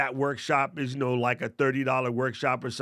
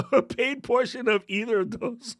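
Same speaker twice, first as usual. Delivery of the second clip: high, laughing voice with a rising end; laughing repeat; 8 semitones higher than usual. Real, not acted. Host repeats a phrase that didn't work out, laughing. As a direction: crack up while repeating your own phrase, pitch climbing.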